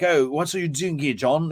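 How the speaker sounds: rough attempt at a Cockney accent. Shown as a demonstration. Showing what her accent isn't, in mock Cockney. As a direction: put on Cockney for a quick example. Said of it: "it's not like a Cockney accent".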